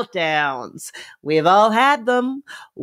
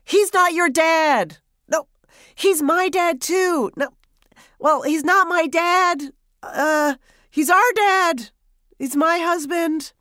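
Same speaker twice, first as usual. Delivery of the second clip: higher, slower, frantic mock yell; mother shouting back at son, losing track; flustered yelling back; 7 semitones higher than usual. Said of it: "yelling back".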